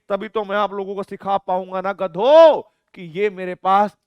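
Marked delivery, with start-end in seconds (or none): 1.8-4.0 loud, slow mock telling-off; teasing teacher scolding. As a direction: playfully bark at the class. Teacher scolds class jokingly.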